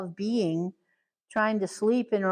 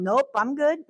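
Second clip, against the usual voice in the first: laughing no thanks; 6 semitones higher than usual. Retold or imitated. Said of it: "And they're like".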